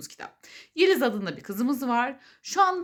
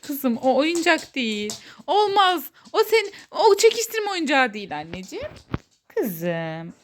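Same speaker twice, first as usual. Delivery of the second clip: firm, loud scolding to a pet; talking to a dog; 3 semitones higher, 7 dB louder than usual. Real, not acted. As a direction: scold the puppy sweetly but firmly. (köpeğe azarlar gibi konuşma)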